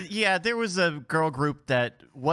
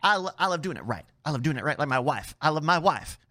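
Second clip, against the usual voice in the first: pompous senator oratory. Acted. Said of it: "definitely straight senator voice".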